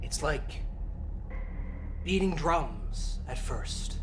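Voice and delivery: slow, hushed dramatic narration; game master narration. Acted. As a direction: build dread as you describe the beast. Game master describes the dragon.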